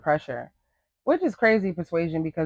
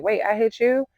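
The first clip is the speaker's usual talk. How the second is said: higher-pitched startled question; mock surprise; 7 semitones higher than usual. Amber answering the complaint that she hit someone, mock surprise. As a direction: play her caught off guard.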